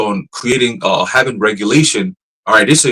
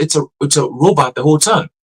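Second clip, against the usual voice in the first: usual speaking voice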